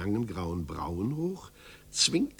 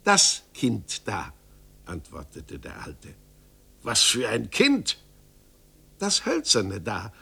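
put-on sly gnome revealing the child; mysterious little man. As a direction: drop the name like a secret. Little man's farewell.

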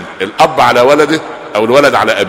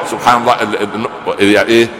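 normal talking voice

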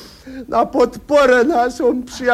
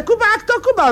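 rapid quip; 13 semitones higher, much faster than usual. Acted. Comic punchline about Kuba.

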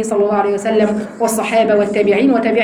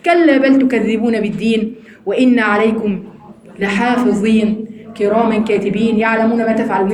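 Quran recitation; 2 semitones lower than usual. Acted. Reciting Quran verses again. (تلاوة قرآنية مرتلة)

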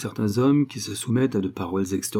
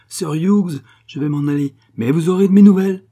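high yelp rising to a shout; furious high-pitched warning; shrill threatening cry; 9 semitones higher, 9 dB louder than usual. A narrator's reading. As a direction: yelp the parting threat, building louder. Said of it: "cria Sophie d'une voix glapissante".

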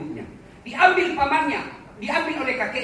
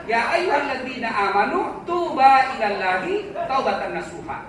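Quran recitation; 4 semitones higher, 5 dB louder than usual. Acted.

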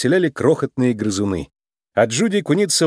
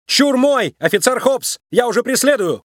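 eager shout; 10 semitones higher than usual. A narrator's reading. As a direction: shout it while already running. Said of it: "и закричала".

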